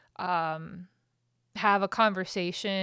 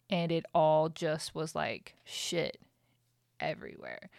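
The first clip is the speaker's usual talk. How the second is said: breathy admission, barely voiced; hushed whisper; 3 semitones lower than usual. Real, not acted. Telling viewers about the mess, whispered. Confessing how bad the mess got.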